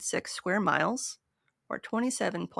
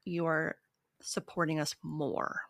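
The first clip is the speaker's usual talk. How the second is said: whisper; 2 semitones lower, 6 dB quieter than usual. Real, not acted. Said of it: "conspiratorial sales pitch".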